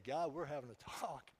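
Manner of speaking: loud, urgent mock plea to God; hammed-up prayer. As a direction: beg God in half-joking panic. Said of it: "I'd be like".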